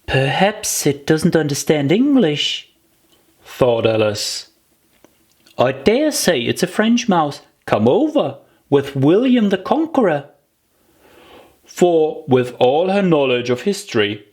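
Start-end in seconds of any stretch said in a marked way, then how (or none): 0.0-2.7 put-on a light, higher girl's voice wondering aloud; little Alice puzzling to herself; Alice's musing. Alice puzzling over the mouse, lightly girlish. 5.6-10.2 put-on higher, bright girl's voice, sure of herself; little Alice showing off her history; Alice's guess. Alice guessing about the mouse, higher girlish voice.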